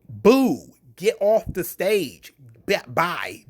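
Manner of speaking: crowd boo from the back; mock boo. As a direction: jeer like a bored crowd. Mock crowd booing the speaker.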